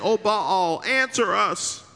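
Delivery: drawn-out mock plea to Baal, slow on answer; a slow, hollow cry of O Baal; pleading prophets. Preacher voicing Baal's prophets, a slow mock plea.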